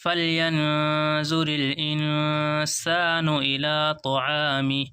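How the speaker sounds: slow, drawn-out melodic tilawat; Quran recitation. Shown as a demonstration. Teacher reciting the verse to students in slow tilawat. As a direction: chant the verse slowly for the class.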